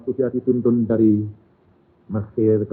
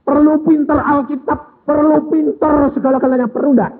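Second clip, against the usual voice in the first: high, loud rhetorical challenge; fiery preaching; 14 semitones higher, 9 dB louder than usual. Acted. Preacher challenges the congregation, loud and high. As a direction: hammer each perlu at the crowd.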